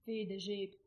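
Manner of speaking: understated tearful voice; a touch of weeping. A narrator's reading. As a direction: say it through tears. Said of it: "he wept".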